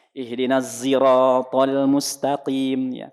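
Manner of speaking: ziratal said slowly with a z sound. Shown as a demonstration. Teacher shows the zai reading of Al-Fatihah. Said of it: "riwayat ada yang pakai zai".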